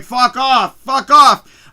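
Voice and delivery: loud shouts of thrilled disbelief; losing it. Retold or imitated. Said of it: "I'm literally, literally losing my shit".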